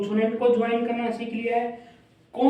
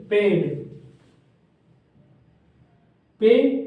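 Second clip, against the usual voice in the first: loud read-aloud; 4 dB louder, much slower than usual. Shown as a demonstration. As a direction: call out पेड loud and clear. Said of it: "हम इसको कैसे read करेंगे?".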